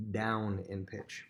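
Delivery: slow, stressed "down in pitch"; teacher stresses "down in pitch" for students; slow emphasis. Shown as a demonstration. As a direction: lean on "down in pitch" slowly. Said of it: "makes things go".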